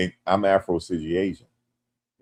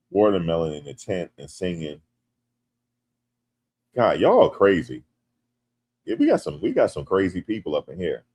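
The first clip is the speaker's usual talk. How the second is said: ordinary delivery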